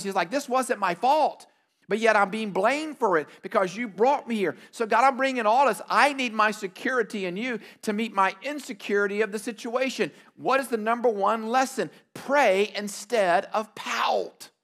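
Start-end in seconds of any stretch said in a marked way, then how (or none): 0.3-10.1 desperate Moses. Retold or imitated. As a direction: cry out as a blamed leader, half acted. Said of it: "you hear all of that in his voice".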